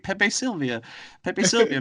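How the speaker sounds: frantic, high-pitched Charlie yelling; manic Charlie. Retold or imitated. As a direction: rant it like a frantic conspiracy guy. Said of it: "Charlie ... he's like".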